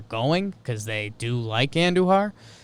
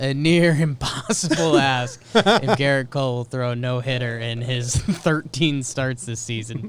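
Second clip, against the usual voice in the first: laughing. Real, not acted. Laughing through no-hitter answer.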